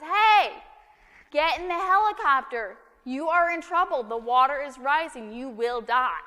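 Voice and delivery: loud, high urgent yell; shouting down. Acted. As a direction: call down over the rotor noise. Helicopter crew shouting down.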